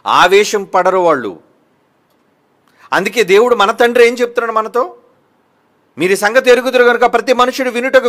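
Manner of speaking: fiery pulpit delivery; forceful preaching. Acted. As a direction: preach it hard at the congregation. Preaching scripture at full force.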